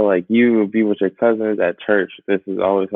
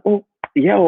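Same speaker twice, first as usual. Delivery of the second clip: switching to Liberian English; 11 semitones higher, 5 dB louder than usual. Shown as a demonstration. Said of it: "I can just switch it and be like".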